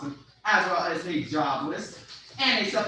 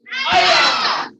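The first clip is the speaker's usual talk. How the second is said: sharp high battle cry; karate kiai; 11 dB louder than usual. Real, not acted. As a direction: shout the strike out hard.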